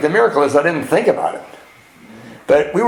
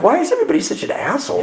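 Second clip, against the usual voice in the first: exasperated outburst; 11 semitones higher, much faster than usual. Retold or imitated.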